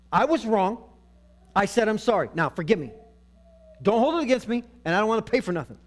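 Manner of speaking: emphatic, self-justifying mock plea; demanding mock apology. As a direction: act out an apology that demands instant pardon. Acts a demanding, perfunctory apology.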